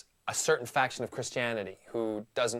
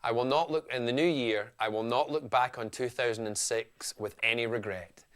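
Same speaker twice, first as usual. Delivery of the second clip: light Scottish accent, easy and chatty. Shown as a demonstration. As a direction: talk it through in a mild Scottish accent. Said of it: "here I am now talking Phil Scott to you".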